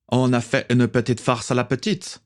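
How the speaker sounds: put-on léger accent allemand, plus aigu; un pirate à l'accent allemand. A narrator's reading. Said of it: "avec un accent allemand". (le pirate Helmut explique la farce, accent allemand)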